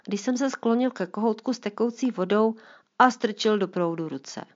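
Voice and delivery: táta vzpomíná, hlasitěji; lightly voiced Mr Fialka. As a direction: otec vypráví dceři o dětství. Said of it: "teď pokračuji jako pan Fialka". (otec dceři vzpomíná, lehce nahraný hlas)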